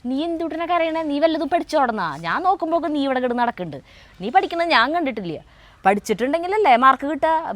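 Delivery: imitated father scolding his crying daughter. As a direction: replay dad's rapid telling-off. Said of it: "അച്ഛൻ്റെ കയ്യിൽ നിന്ന് കുറേ ചീത്ത കേൾക്കുന്നുണ്ട്".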